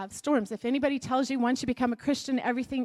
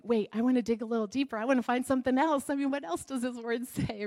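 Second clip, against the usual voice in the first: eager; 3 semitones higher, faster than usual. Retold or imitated. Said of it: "you're like".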